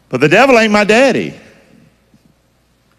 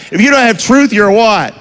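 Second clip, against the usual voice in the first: higher-pitched country-preacher call; country accent; 5 semitones higher than usual. Shown as a demonstration. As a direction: say it like you're out in the country. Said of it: "say it like you in the country".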